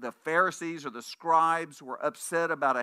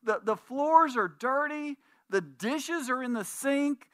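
a sick wife fussing, pitched well up; apologetic sick wife; 8 semitones higher than usual. Retold or imitated. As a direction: whine the apology from the sickbed. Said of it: "And she said".

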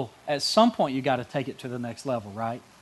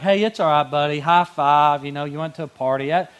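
mock buddy; 4 dB louder than usual. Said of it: "Friendships could be like".

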